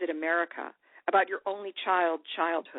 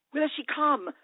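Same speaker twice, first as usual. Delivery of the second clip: rising anguish; 8 semitones higher, 4 dB louder than usual. Acted. Repeated anguished question, louder.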